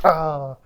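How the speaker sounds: loud, high mock "ah"; mock yelp on being hit; imitated cry of pain. Prisoner hit after the rice, imitated cry of pain.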